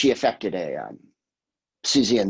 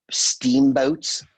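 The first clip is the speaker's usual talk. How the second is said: repeating the Scottish word as a baffled question; puzzled question; 5 semitones higher, 5 dB louder than usual. Retold or imitated. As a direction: ask it back, incredulous. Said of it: "and I'm like".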